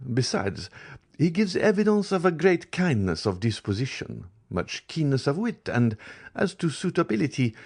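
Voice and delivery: a gossiping baroness, pleasant and confiding; voiced Baroness. A narrator's reading. Baroness chats about the prince.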